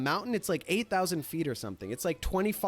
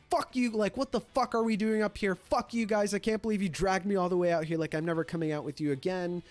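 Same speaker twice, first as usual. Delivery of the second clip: mildly raised, quick mock tirade; retold angry rant; faster than usual. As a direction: imitate a curmudgeon losing it, without shouting. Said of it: "loses his shit. He's like".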